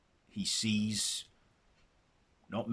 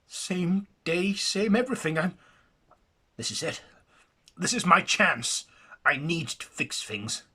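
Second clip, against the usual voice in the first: high and louder, eager; excited realization; 8 semitones higher, 5 dB louder than usual. Acted. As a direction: seize the chance with rising excitement. Jackson realizing second chance.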